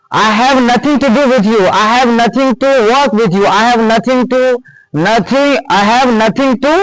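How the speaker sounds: slow, word-by-word model sentence; slow dictation. Shown as a demonstration. Teacher to class, dictating slowly. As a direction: spell it out slowly for students.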